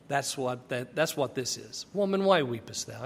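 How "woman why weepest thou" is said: loving kindness. Shown as a demonstration. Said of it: "It's loving kindness".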